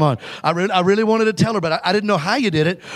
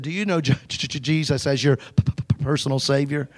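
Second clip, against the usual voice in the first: nervous stammer; 3 semitones lower, 4 dB quieter than usual. Retold or imitated. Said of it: "I was still really nervous".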